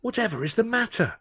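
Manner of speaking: a hint of a fussy older man; Alf voice. A narrator's reading.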